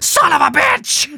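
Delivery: high, loud, slow squawk; parrot mimicking a curse. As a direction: screech it like the bird. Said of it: "then be like".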